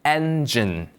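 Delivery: "engine" in careful English, falling at the end; English pronunciation. Shown as a demonstration. Teacher has learners look and repeat, careful English "engine". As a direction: model "engine" as two even English syllables for repeating. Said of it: "한 번만 더요".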